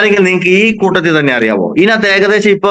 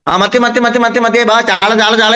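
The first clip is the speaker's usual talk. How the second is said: sharp piercing fish seller; 3 semitones higher than usual. Retold or imitated. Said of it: "എന്ന് വിളിക്കൂലേ".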